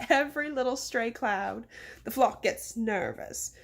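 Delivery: put-on rude, uneducated-sounding English accent. Mayor explaining his rounds, in English accent. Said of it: "to get the English accent".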